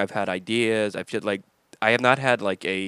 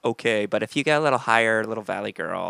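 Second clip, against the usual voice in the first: Allison voice. Retold or imitated. Host voices his wife Allison as a timid valley girl. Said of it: "if I were to do an Allison voice".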